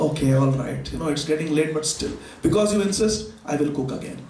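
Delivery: low, tired giving in; reluctant agreement. Acted. The brahman yields to the father's pleading, low and weary. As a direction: sigh it out and give in.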